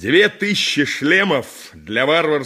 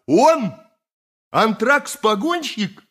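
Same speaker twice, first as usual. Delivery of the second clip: can't believe what he hears; incredulous; 5 semitones higher than usual. Acted. Mastax scoffs at Pelida's claim about Antrax, incredulous and higher.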